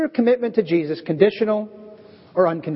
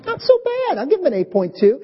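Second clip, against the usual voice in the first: judging the sermon; 8 semitones higher, faster than usual. Retold or imitated. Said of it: "hold up your grading sign".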